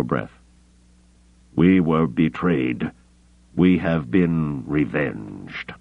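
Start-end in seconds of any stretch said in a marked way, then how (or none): 1.5-5.7 slow, strained dying voice; slow, gasping assassin. Acted. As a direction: gasp out each word slowly.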